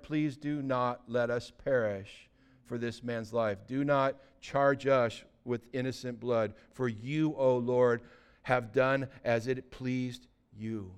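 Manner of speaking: slow, low, softened plea to God; measured, hushed entreaty; solemn prayer. Acted. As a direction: pray it slowly and gravely. Sailors pray before throwing Jonah.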